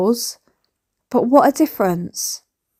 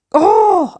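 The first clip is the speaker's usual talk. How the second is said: mock huff; 10 semitones higher, 6 dB louder than usual. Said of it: "then he's like".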